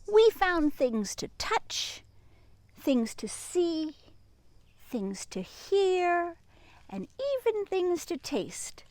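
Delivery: slow listing. A narrator's reading. Building list to children.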